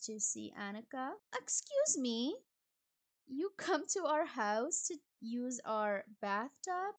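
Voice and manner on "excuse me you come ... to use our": indignant surprise. Real, not acted. Player scandalised that a guest uses the bathtub, indignant surprise. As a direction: act scandalised at the intruder.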